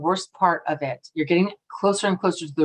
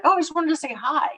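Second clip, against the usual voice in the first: put-on little kid voice; 8 semitones higher, faster than usual. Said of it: "They're like".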